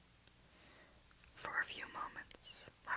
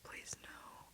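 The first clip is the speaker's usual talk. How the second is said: sobbed; 3 dB quieter, slower than usual. Acted. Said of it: "Sasha sobbed".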